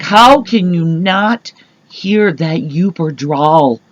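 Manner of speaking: slow, drawn-out incredulity; retold disbelief. Asking mom how she misses the drawl, slow disbelief. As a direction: stretch out each word in mild disbelief.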